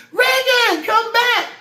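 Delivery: very high, loud imitation of mom calling; mom's high-pitched voice. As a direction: holler in a piercing falsetto like mom. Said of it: "my mom got that high-pitched voice".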